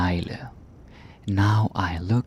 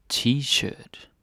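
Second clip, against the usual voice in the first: T-shirt in a Danish accent; 5 semitones higher than usual. Shown as a demonstration. Teacher showing learners the word T-shirt, Danish accent. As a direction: say T-shirt the Danish way, drawn out and higher. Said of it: "say it with the Danish accent".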